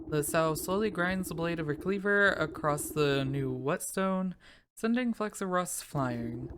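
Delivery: slow storyteller reading; story narration. Acted. Reads game narration aloud.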